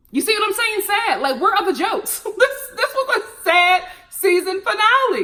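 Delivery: high, loud laughing voice. Real, not acted. Joking with viewers about the sad finale, laughing. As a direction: laugh through the disbelief.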